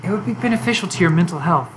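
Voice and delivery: lightly voiced, mocking and cold; Yuri turning cruel. Yuri mocks Monika to her face, mild cold sneer. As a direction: sneer at her rival, then go icy.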